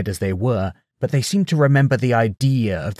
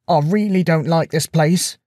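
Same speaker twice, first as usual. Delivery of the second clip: quavering; 6 semitones higher, 3 dB louder than usual. Acted. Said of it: "his tone quavering".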